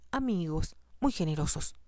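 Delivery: amigos leaned on, pointed and knowing; stress on amigos. A narrator's reading. Stepmother stresses amigos to needle Zenobia, pointed. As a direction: lean on amigos to imply lovers. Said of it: "Enfatizó la palabra amigos".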